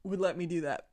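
choked up from laughing; throat catching mid-laugh; choking up. Real, not acted. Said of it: "I'm choking up".

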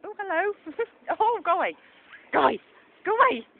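high, loud, giggly shooing; half-laughing as she brushes the dog off. Real, not acted. Dog jumping at her, laughing.

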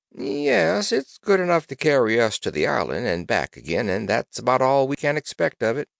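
put-on loud, high old sailor; hearty old seaman reassuring the girl; gruff old fisherman. Old sailor answers Trot.

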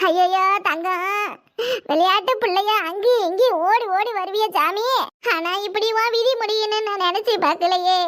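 keening over the body; funeral wailing. Acted. Funeral wail over the dead.

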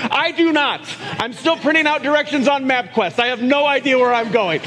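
lightly hammed-up confusion; mock clueless. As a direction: play a hapless guy still printing directions. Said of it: "You know how to get there".

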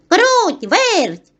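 high, loud calling out; rufend. A narrator's reading. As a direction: call the two mice over from afar. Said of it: "став гукати Півник".

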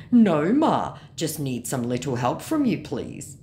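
begging scammer, loud start dropping away; mock a wheedling plea. Scammer asking the fan for help, mock begging.

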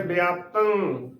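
ਵਿਆਪਤੰ said bi-aap-tang, with a b; "biaaptang" for ਵਿਆਪਤੰ; demonstrated pronunciation. Shown as a demonstration. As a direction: start ਵਿਆਪਤੰ with "bi" and end nasal. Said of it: "ਸ਼ਬਦ ਦਾ ਉਚਾਰਨ ਕਰਨਾ ਹੈ".

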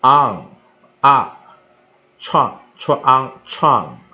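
loud isolated "on", then blended into "创"; sound blending demo. Shown as a demonstration. Teacher shows the sound this syllable makes, blending demo. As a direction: punch out "on" and "创" as separate sounds. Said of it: "它发出一个".

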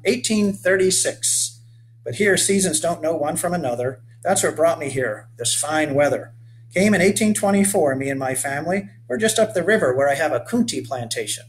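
rugged 1830s settler hailing a stranger; weathered old boatman. Acted. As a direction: call out to the boy like a sun-burned old sailor. Explains coontie farming.

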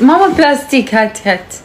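high call to mother in the next room; calling out to mom. Real, not acted. Daughter calls her mother to bring plastic, high calling out.

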